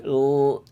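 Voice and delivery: "l" held back in the throat; low dark L. Shown as a demonstration. Teacher pointing to where English L sits, throaty "l". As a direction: draw out a North American "l" from low down. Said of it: "It's much more here".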